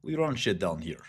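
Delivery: put-on Russian accent, boasting; Brooklyn Russian accent. Brooklyn Russian claiming his turf, mock Russian accent. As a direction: play a comic Russian tough guy. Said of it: "I'm Brooklyn Russian".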